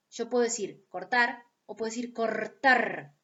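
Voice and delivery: first "cortar" with a single tapped r, second "cortar" with a rolled trilled r; tap then trill. Shown as a demonstration. Teacher to students, demonstrating both r sounds. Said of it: "por más que uno lo pronuncie como una vibrante simple o como una vibrante múltiple".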